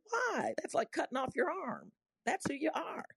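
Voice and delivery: high-pitched incredulous retelling; acting out an appalled objection; incredulous protest. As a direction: protest in high-voiced disbelief. Retelling her protest to students.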